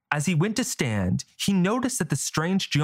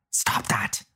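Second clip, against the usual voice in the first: sharp urgent hiss; hushed sharp hiss. Acted. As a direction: hiss it under your breath. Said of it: "Drell hissed".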